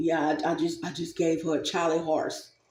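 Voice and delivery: deadpan, soft, flat monotone with no up or down. Speaker quoting a person from a deleted video, flat monotone imitation. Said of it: "the devil talks like that, right? Monotone".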